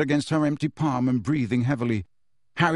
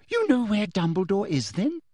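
higher, eagerly rising question; 7 semitones higher than usual. A narrator's reading. Teacher presses girl for headmaster's whereabouts, eager. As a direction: pounce on the clue, lifting the end. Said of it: "said Umbridge eagerly".

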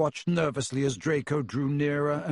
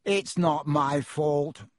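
sulky retort; much slower than usual. Acted. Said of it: "retorted Draco".

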